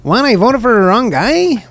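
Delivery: high, hammed-up Latino accent. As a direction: exaggerate a sing-song Latino accent. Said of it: "let's do a Latino accent".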